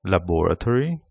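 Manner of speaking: "laboratory" said LAB-ra-tory, American way; American "laboratory", stress on the first syllable; American English. Shown as a demonstration. Teacher shows varieties, "laboratory" in American English. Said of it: "different varieties".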